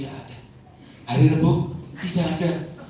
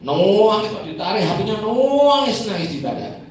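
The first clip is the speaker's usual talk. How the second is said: high, loud imitated wailing; mock wailing; 8 semitones higher, 9 dB louder than usual. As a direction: wail like a child losing her toy. Child wails as phone is taken.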